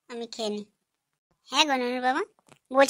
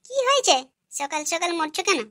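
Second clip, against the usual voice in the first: sharp surprised retort; 5 semitones higher than usual. Acted. Wife snaps back at husband.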